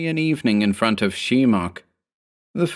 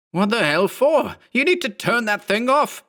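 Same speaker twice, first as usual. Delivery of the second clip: higher, sharp angry bark. A narrator's reading. Mark barks at his clone to turn it off. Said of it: "Mark barked".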